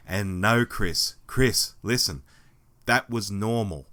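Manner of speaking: rough, hoarse voice; hoarse voice, a bit aggressive. Real, not acted. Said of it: "with this hoarse voice".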